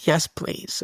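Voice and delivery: breathy little whispered yes; small whisper. Retold or imitated. Toddler quietly asking dad to stay, whispered. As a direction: answer in a tiny frightened whisper.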